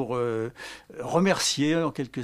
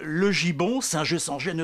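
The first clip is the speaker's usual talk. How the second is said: reprise déclamée; 2 semitones higher than usual. Acted. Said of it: "Je vais vous faire un poème sonore".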